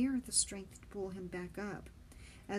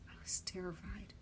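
usual speaking voice

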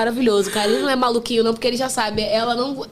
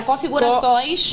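Configurações drawn out slowly, syllable by syllable; Configurações, said slowly for viewers to write; slow dictation; slower than usual. Shown as a demonstration. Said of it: "Anota aí, galera".

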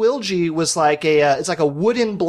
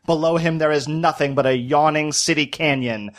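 lightly done vintage newsreel announcer; a hint of a thirties newsreel narrator, dramatic; old-timey newsreel voice. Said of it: "old-timey newsreel voice".

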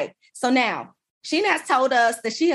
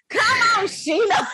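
hyped cheer; 11 semitones higher than usual. Real, not acted. Host cheering guest after hearing her title, excited. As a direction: egg her on with delight.

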